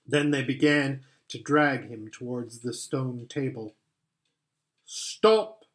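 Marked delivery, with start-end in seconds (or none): 4.8-5.6 witch command. Acted. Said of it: "said the witch".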